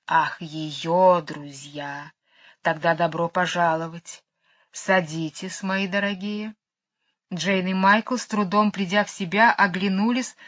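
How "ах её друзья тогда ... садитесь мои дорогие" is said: slow snake voice. Acted. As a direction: savour each word, unhurried. Кобра повторяет слова медведя. (медленный голос кобры)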